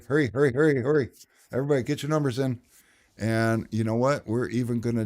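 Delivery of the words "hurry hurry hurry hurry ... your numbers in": urgent hurrying. Real, not acted. Rushing chat to pick.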